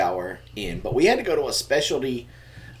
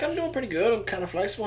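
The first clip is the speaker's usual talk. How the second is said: quoting himself; 8 semitones higher, 5 dB quieter, faster than usual. Retold or imitated. Dad quotes his own fib.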